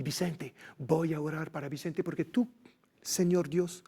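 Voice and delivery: lightly voiced Mexican Spanish prayer, blessing a man; a Frenchman praying over him in Mexican Spanish. Retold French stranger's blessing, praying in Mexican Spanish. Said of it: "Il se met à parler ... en espagnol".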